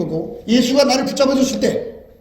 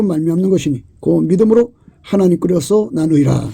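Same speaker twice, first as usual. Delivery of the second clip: scripture reading; 2 semitones lower than usual. Acted. Preacher reading Paul's letter aloud to the church, solemn. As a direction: proclaim the verses steadily to the congregation.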